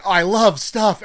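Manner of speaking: high, loud, slow I love stuff; mock blissful gush. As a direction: drawl out the bliss. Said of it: "and then gone".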